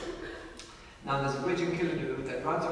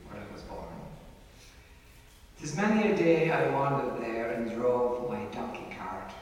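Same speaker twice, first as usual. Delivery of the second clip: poem recitation. Acted. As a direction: recite it like a fond ballad. Recites a poem about Clare.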